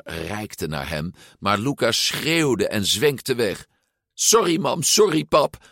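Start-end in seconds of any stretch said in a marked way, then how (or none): 4.1-5.6 high, hurried shout back; calling out. A narrator's reading. Son calls to his parents while pedalling, high and apologetic. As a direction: call back while riding away. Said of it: "riep hij al trappend".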